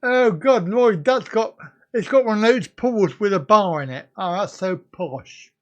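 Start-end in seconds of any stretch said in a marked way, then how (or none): 0.0-4.1 real excited gasp of envy; excited amazement. Real, not acted. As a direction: marvel out loud at the pool. Amazed at pool with bar.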